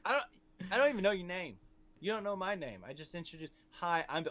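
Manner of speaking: put-on high, incredulous kid's protest; bewildered mock protest. New student answering a bully he just met, high bewildered protest.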